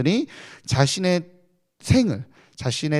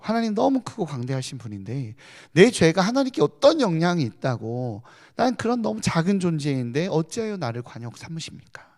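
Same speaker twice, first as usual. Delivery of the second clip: a lightly voiced, higher plea to God; half-sighing, asking God why, a touch raised; sighing lament; 3 semitones higher than usual. Job sighing his complaint to God, mild lament. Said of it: "라고 탄식해".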